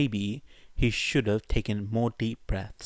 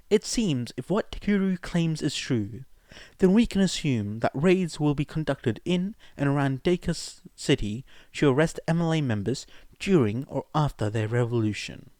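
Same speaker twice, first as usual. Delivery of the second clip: higher, lightly voiced Nedzu; 5 semitones higher than usual.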